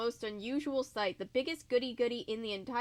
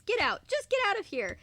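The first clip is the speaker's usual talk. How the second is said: yelling; 10 semitones higher, 4 dB louder than usual. Acted. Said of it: "started yelling at the top of her lungs".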